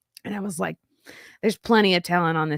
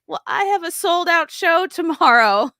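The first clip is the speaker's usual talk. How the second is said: higher, light mock comedian brain; inner comedian; 10 semitones higher, 5 dB louder than usual. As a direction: lightly voice the show-must-go-on comic. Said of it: "the comedian part of you that's like".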